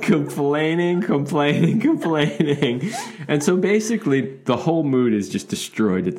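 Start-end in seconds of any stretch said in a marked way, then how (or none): 0.0-2.9 drawn-out complaining. Retold or imitated. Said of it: "she is not having any of it".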